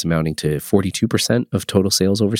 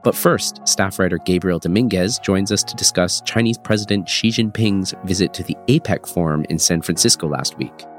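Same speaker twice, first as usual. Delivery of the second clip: congested, stuffy voice from a cold; nasal voice. Real, not acted. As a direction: talk through a blocked nose. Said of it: "apologies for my nasally voice".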